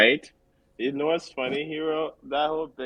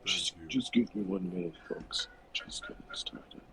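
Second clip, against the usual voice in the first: husky morning voice; 8 dB quieter than usual. Retold or imitated. Imitating sexy morning voice.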